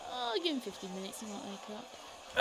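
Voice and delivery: lightly voiced guard, slowing at the end. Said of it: "he goes".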